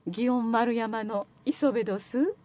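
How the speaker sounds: slow, careful Kyoto-dialect commercial read; a polished Kyoto greeting read slowly; Kyoto dialect line. Retold or imitated. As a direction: savor each word like a Gion shop lady. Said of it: "言うて、言うたんが".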